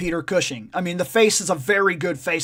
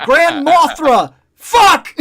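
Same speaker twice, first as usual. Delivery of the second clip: slow, loud, high yell breaking into laughter; frustrated shout; 7 semitones higher, 8 dB louder, much slower than usual. Retold or imitated. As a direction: curse at yourself for the slip. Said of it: "I was like".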